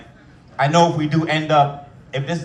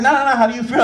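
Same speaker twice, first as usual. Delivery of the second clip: nurse voice; 10 semitones higher, 5 dB louder, faster than usual. Retold or imitated. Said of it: "She's like".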